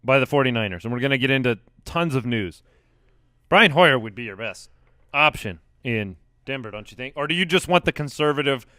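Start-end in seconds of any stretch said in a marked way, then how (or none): 3.5-8.7 nose whistling while talking. Real, not acted. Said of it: "my nose is whistling".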